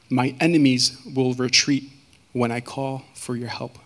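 measured psalm reading with long pauses; scripture reading. Real, not acted. Speaker reading Psalm fifty-six to the congregation, measured scripture reading. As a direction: read it out deliberately, phrase by phrase.

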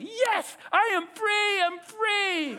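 very high, drawn-out sheep cheer; mock triumphant cry in a high voice; jubilant freed sheep. Preacher voices the sheep pulled free, jubilant. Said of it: "Now he's like".

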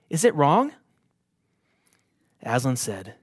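measured storybook reading; a preacher reading a story to the congregation; story narration. A narrator's reading. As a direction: read the tale aloud, gently and evenly. Reads Narnia story aloud.

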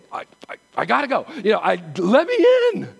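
put-on a kid hopping to be let in; eager little kid. Pastor playing a little kid begging to be let into the temple, fast and loud. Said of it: "Like a little kid, go".

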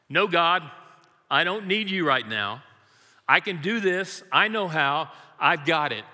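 mock defiance. Believer telling God he needs no help, mock defiant. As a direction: play the stubborn believer refusing help. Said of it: "how often I am like that".

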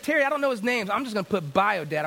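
retold sarcasm, starting high; sarcastic. Client giving in to a pushy counselor, sarcastic. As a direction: toss it off sarcastically to shut him up. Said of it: "I was being real sarcastic".

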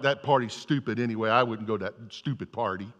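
low, muttered sulking; older brother sulking outside the party; pouty sulk. Retold or imitated. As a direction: sulk like a jealous teenager. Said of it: "big pouty face on".

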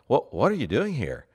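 "What, what are you doing here?" erschrocken und höher gesprochen; startled. Shown as a demonstration. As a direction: stolpere erschrocken ins "What, what". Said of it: "I meant it in a kind of a startled way".

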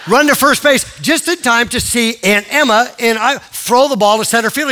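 high, loud telling of the run; excited play-by-play. Retold or imitated. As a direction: relive the dash round the bases. Retelling the boy's frantic run.

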